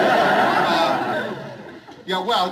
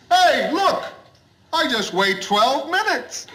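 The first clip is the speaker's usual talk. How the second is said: put-on drunk voice; 8 semitones higher than usual. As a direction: play the drunk at the meter, hammed up. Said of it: "he says".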